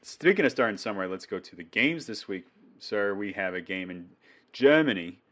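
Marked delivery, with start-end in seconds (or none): 4.5-5.2 "Germany" said in a mock German accent, a bit louder; joking German accent on "Germany"; bad German accent. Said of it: "Worst German accent you'll ever hear".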